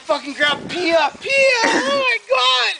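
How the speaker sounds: drawn-out yell climbing very high; retold frantic shout. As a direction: mimic someone yelling in panic. Uncle shouting in the retold emergency.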